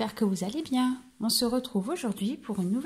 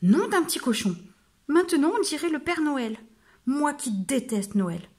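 louder, higher outburst, slowing at the end; wolf's outraged exclamation; 3 semitones higher, 3 dB louder than usual. Acted. Wolf grumbling at the mirror, loud and cross. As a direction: shudder at looking like Santa.

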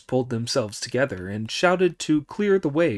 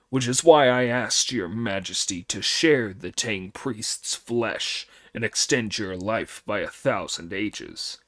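deep humble demon lord; booming demon lord; 3 semitones lower than usual. Acted. Demon King explains to father.

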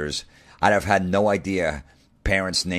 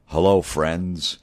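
mock Jim Nantz; 2 semitones higher, slower than usual. Jim Nantz catchphrase mocked.

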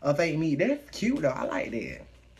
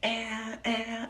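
high whispered ow ow ow; mock pained whisper; 10 semitones higher, much slower than usual. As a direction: breathe the ows out, faking pain, high and voiceless. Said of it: "and I'm like".

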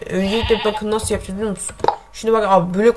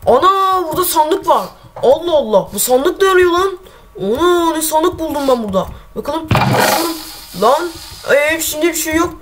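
pitched-up voice of a guy finding a chest, puzzled and nosy; imitating a curious player; 5 semitones higher than usual. Gamer imitating a player who finds a chest, higher and curious. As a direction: play the clueless passer-by who spots a chest. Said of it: "bakın ya şimdi nasıl taklit yap".

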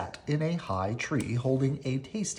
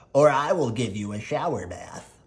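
elephant voice; 4 dB louder than usual. Acted.

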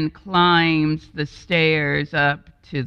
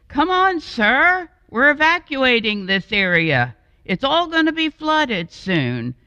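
higher, louder urgent shout; urgent call; 9 semitones higher, 5 dB louder than usual. Acted. Driver shouting to the man to evacuate, urgent call. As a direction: call him out of the house in a hurry.

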